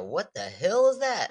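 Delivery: put-on country accent. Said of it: "say that again".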